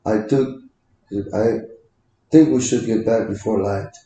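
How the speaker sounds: imitating a Russian accent. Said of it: "like a Russian accent sometimes".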